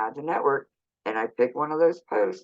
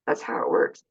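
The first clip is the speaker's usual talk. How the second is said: "That's how it works" whispered, no voice; whispered repeat. Shown as a demonstration. Telling viewers the trick, "That's how it works" whispered.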